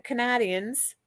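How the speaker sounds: "Canadians" said with "nah" in place of "nay"; deliberately wrong vowel, ka-NAH in "Canadians"; playful mispronunciation. Shown as a demonstration. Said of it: "I kept saying Canadia".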